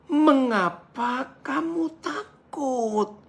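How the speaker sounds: very slow, drawn-out gentle question; different, unangered intonation. Acted. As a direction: ask it unhurriedly, without shouting. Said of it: "intonasinya beda".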